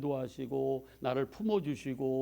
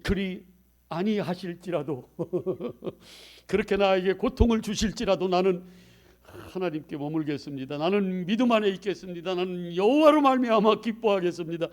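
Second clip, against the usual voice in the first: louder, ringing vow of faith; fervent declaration; 4 semitones higher, 7 dB louder than usual. Pretend. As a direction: proclaim it like a hymn of trust. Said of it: "막 이렇게 찬송하며 나갈 거예요?". (찬송하듯 우렁찬 고백)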